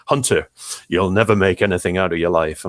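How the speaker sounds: lightly voiced Yorkshire schoolteacher; a hint of a stern Yorkshire teacher; Yorkshire accent. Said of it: "I'm trying to do a Yorkshire accent here".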